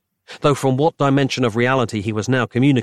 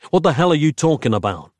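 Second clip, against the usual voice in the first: exasperated; 5 semitones higher, 3 dB louder, faster than usual. Acted. Frustrated outburst.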